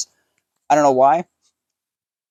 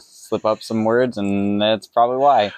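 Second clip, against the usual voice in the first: frozen mouth from dentist; talking with a numb mouth. Real, not acted. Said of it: "so my mouth is frozen".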